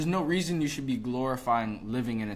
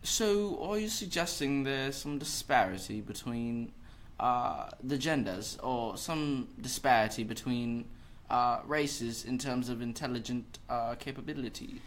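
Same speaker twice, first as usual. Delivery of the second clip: put-on British accent; 3 dB quieter than usual. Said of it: "that sounds so smooth".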